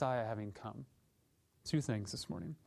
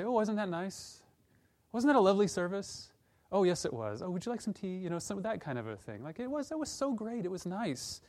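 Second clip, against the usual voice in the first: higher, lightly hammed-up polite chatter; mock prim churchgoer; 5 semitones higher than usual. Churchgoers after a lovely service, mock prim chatter. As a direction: lightly parody a pleased, complacent churchgoer. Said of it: "And we might say".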